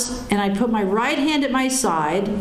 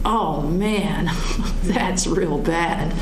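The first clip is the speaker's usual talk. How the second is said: laughing; 4 semitones lower, much slower than usual. Retold or imitated. Laughing at her own reaction.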